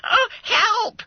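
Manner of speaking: very high, loud and fast; frantic babbling. Acted. Boy blurting his confession to the master, high fast panic. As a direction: gabble it out in panic.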